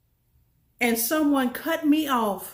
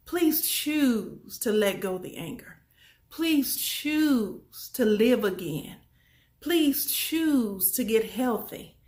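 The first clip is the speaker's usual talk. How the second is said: pleading softly; slower than usual. Shown as a demonstration. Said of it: "I'm gonna say it again".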